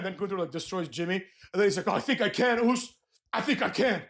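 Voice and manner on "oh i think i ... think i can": mock sudden confidence; Jey Uso. Wrestler after his partner's defeat of doubt, mock confident. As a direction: imitate him freshly convinced of himself. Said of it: "all of a sudden that confidence".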